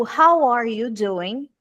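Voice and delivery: slow, careful English model line for students to repeat; slow model phrase. Shown as a demonstration. Teacher to online students, a slow model line to repeat. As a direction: say it slowly so the class can copy the intonation. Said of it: "de repetir as coisas que eu faço".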